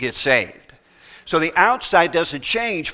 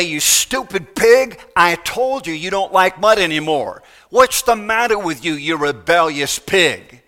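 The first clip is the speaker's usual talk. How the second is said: preacher scolding an imaginary pig, mock exasperation; 3 dB louder than usual. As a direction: tell off the stupid pig, half-joking.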